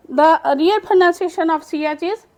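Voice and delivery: slow, careful explanation; slow teaching read. Shown as a demonstration. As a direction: explain it slowly to the class. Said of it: "च नहीं पढ़ना". (धीरे धीरे समझाते हुए)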